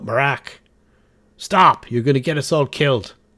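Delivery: loud yelling, shouting. Running the game, voicing a silent cultist who calls out to Marak: yelling. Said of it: "just yelled out".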